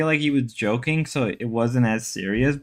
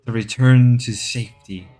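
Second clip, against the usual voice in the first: nature documentary. Pretend. Documentary narration continues.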